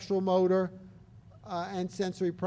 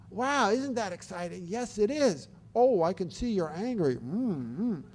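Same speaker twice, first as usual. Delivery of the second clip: put-on animated, like to a younger child. Shown as a demonstration. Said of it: "so we're very animated back".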